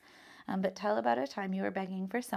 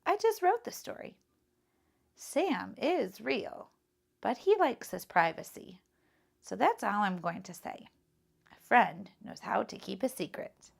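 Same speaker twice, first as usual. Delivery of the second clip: put-on shy boy Tom; 4 dB louder than usual. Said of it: "answered Tom with a shy smile".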